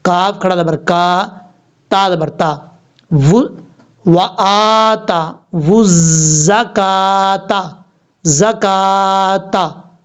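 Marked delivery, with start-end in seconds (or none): 4.1-9.9 very slow chanted recitation; Quranic recitation. Shown as a demonstration. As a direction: intone it slowly like tajweed. Recitation demo.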